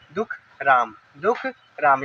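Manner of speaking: दुख, then राम, with a break between; word divided in two. Shown as a demonstration. Teacher breaking up a long word, two separate parts. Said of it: "आप उसको divide कर दीजिए".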